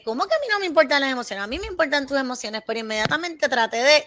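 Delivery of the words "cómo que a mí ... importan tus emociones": respuesta defensiva. Retold or imitated. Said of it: "iba a contestar inmediatamente".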